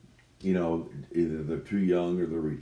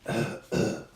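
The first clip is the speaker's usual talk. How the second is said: fake cough. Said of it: "Put on your best sick voice".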